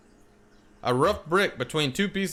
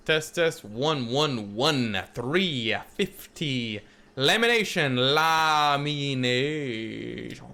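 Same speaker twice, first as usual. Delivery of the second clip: mic check; much slower than usual. Pretend.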